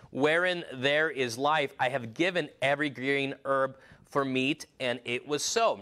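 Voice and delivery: measured, solemn Bible reading; scripture reading. Acted. Preacher reading Genesis aloud to the congregation, solemn and measured.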